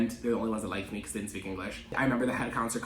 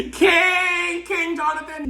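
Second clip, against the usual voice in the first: high, loud hype shout; cheering shout; 7 dB louder, much slower than usual. Real, not acted. Praising dad for not caring, a loud cheer. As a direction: cheer him on like a fan in the stands.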